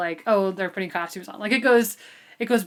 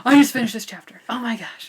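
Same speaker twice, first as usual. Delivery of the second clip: louder, gushing re-read of a text message; excited text; 3 semitones higher, 7 dB louder than usual. Retold or imitated. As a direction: burst out like you just finished a thrilling chapter. Quoting excited texts to co-host.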